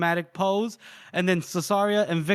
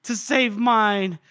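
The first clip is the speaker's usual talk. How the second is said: hammed-up lament; 4 semitones higher than usual. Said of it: "he goes".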